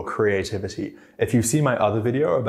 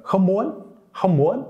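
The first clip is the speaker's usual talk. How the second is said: "không muốn" started high, rising at the end; a happier, high-pitched "không muốn"; excited high start; 10 semitones higher than usual. Shown as a demonstration. Teacher showing how to sound more excited, high-pitched "không muốn". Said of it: "a little bit more happy if you start at a higher pitch".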